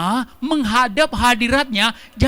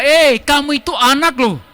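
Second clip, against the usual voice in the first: gentle reminder; 3 semitones higher, 4 dB louder than usual. Retold or imitated. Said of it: "Dia bersaksi dalam kita".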